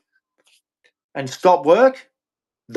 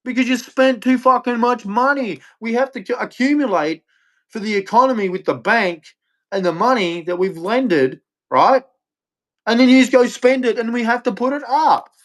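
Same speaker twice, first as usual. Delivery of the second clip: higher, exasperated banker scolding; a raised, scolding banker voice; mock banker lecture; 5 semitones higher than usual. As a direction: lecture the government like a fed-up banker. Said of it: "And the banks are like".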